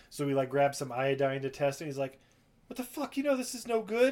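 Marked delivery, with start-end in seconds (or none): 2.7-4.1 much higher, exaggerated disbelief; hammed-up indignant shock; mock outrage. A rapper finds fake paper.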